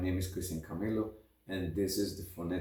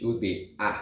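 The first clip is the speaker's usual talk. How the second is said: British A; faster than usual. Shown as a demonstration. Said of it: "In British".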